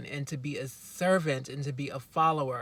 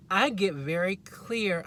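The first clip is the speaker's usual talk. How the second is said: slightly raised voice; 3 semitones higher, slower than usual. Real, not acted. Telling viewers about clear inner instructions, slightly raised voice. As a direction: get carried away, slowly driving it home. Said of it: "I don't know why I'm yelling".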